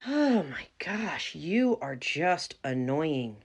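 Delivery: exasperated. Acted. Exasperated at ex-employee.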